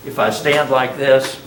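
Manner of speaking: dull, unexciting way; slouched posture voice. Shown as a demonstration. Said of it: "probably not as exciting as if".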